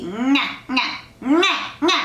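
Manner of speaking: "Nga, nga" with a nasal ng start. Shown as a demonstration. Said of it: "hung with a G".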